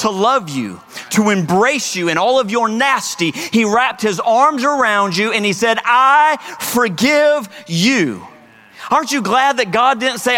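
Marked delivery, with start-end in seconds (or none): 5.8-8.2 tender forgiveness. Acted. God embracing the sinner.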